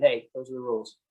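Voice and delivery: flat blunt "Hey, those are the rules"; just state it bluntly; blunt statement. Retold or imitated. Cop stating the rules flatly, blunt. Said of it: "just that blunt statement".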